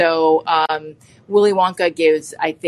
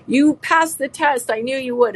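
tender Willy Wonka; 9 semitones higher than usual. Retold or imitated. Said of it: "hugs, uh, Charlie and is like".

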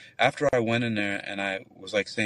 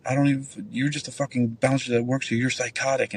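retold yelling; 4 semitones higher than usual. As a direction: imitate her yelling without raising the volume. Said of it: "she started fucking yelling".

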